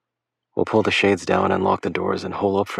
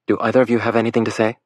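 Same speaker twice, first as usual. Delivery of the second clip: stern mother; 4 semitones higher, 3 dB louder, faster than usual. Acted. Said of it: "superbly faked motherly tone".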